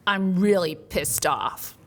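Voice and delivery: slow, heavy, pissed-off words; angry patient. Retold or imitated. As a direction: drag it out like a furious patient. Angry patient quoted in story.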